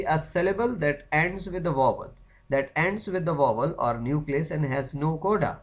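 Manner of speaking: reading a definition slowly for notes; slow dictation. Shown as a demonstration. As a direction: drag each word so the class can copy.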